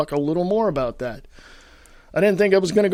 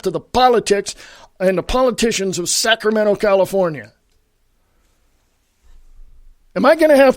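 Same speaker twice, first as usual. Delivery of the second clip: raised, higher-pitched angry tirade; heated rant; 3 semitones higher than usual. Real, not acted. Radio host berating his California listeners, angry raised rant. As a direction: berate them hotly, pushing the pitch up. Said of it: "Yeah, I'm a little excited. I'm pissed".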